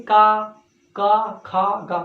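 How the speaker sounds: का, खा, गा spoken clearly from the throat; throat sounds demo. Shown as a demonstration. Teacher drilling class on का, खा, गा. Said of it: "तो कंठ से बोलते हैं".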